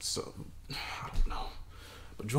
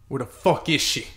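louder, bursting out in worry; anxious outburst; 9 dB louder than usual. Acted. Man waiting up for his girlfriend bursts out in panic. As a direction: let the worry break out. Pacing alone, worried.

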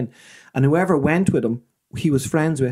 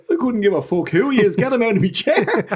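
imitating gruff dad; 8 semitones higher than usual. Drunk dad snaps at priest.

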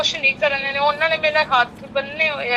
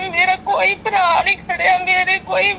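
raised, crying complaint; ਰੋਂਦੀ ਹੋਈ ਸ਼ਿਕਾਇਤ; real tearful pleading; 3 semitones higher than usual. Real, not acted. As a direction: pour out grief through tears. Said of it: "ਰੋ ਨਾ ਭੈਣ ਮੇਰੀ".

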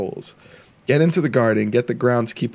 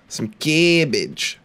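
drawn out; 3 semitones higher, much slower than usual. Shown as a demonstration.

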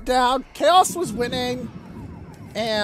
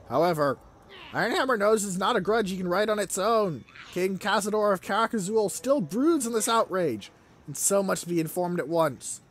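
measured, lightly dramatic storyteller's reading; story narration; 5 semitones lower than usual. A narrator's reading. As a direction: read the lore out like a chronicle, a little low. Reads game event text.

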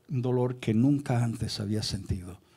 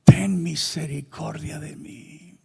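higher, slow, drawn-out wailing plea; crying out for mercy; 5 semitones higher, 4 dB louder, much slower than usual. Retold or imitated. Sinner prostrate on the floor begging God, crying out. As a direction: stretch it into an anguished cry. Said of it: "mi espíritu gritaba".

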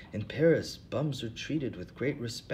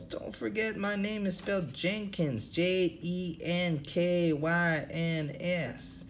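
mock shout; 7 semitones higher, slower than usual. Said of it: "he shouts".

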